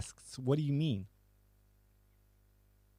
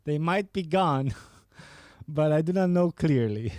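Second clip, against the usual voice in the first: louder and higher, breaking into laughter; laughing mock reading; 4 semitones higher, 4 dB louder than usual. Streamer mimics girl's reply to chat, laughing loudly. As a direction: laugh your way through her line. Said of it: "and she said".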